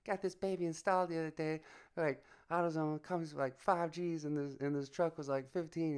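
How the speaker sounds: high-pitched imitation of a buddy; high Tyson-like voice. Imitating a buddy showing off his truck stereo, high voice. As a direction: speak up high like Mike Tyson. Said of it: "he had a high voice like Mike Tyson".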